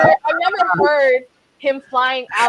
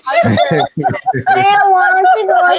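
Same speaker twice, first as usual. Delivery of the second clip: laughing; 9 semitones higher, 8 dB louder, faster than usual. Real, not acted. Laughing while starting the story.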